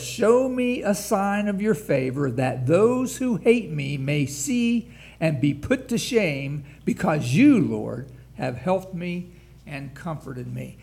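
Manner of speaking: loud scripture plea. Acted. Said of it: "And he says this".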